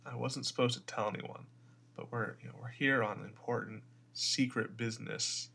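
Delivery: hushed, halting confidence, slowing at the end; confidential aside. Pretend. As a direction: lean in with a secret. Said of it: "I lean close and I'm like".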